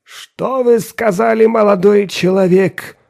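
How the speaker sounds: slow, high, disbelieving question; bewildered. Acted. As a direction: ask it as if you misheard. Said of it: "Растерянно моргая".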